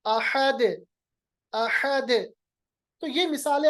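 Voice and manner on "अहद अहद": अहद with final d bounced; qalqalah. Shown as a demonstration. Teacher stops on dal, अहद with echoing d. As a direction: release अहद as "ahade". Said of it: "आखिर में दाल को साकिन बनाइए".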